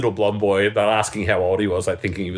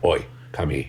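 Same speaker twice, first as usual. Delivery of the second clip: deep, low growling voice; 5 semitones lower, 3 dB quieter than usual. Calling him over instead of screaming in front of people, low growl. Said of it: "I've started the the low growl".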